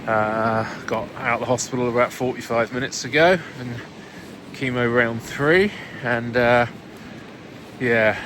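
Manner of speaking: muffled, as if through a hood in the rain. Real, not acted. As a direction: speak muffled, covered up. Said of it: "this muffled voice".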